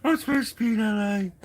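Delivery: high squeaky quote through laughter; laughing quote. Retold or imitated. Vlogger requoting the film line for viewers, laughing hard. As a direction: force the line out while laughing.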